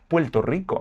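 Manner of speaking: Puerto Rico with the R as an L, Puelto Rico; Puerto Rican accent. Shown as a demonstration. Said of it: "replacing the R sound with L".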